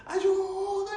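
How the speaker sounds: high, loud cry for help; shout for help. Retold or imitated. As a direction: yell to the shore again. Calling shore for help.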